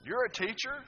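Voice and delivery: high, loud incredulous rebuke; Jesus chiding a teacher of Israel; Jesus rebuking Nicodemus. Acted. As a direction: scold the learned teacher, rising. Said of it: "Jesus said that to Nicodemus".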